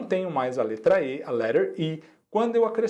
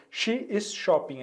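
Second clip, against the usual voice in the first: She is shopping, higher and slow with a falling end; slow model sentence; 5 semitones higher, slower than usual. Shown as a demonstration. Teacher reading the first example to students, high and slow. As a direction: stretch it out for learners to repeat. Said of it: "Vamos ver aqui o nosso primeiro exemplo".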